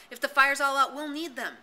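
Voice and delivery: high, loud urgent shout. A narrator's reading. Ralph shouting to Maurice about the fire, urgent loud shout. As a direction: yell the reason out, breathless. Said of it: "shouted Ralph".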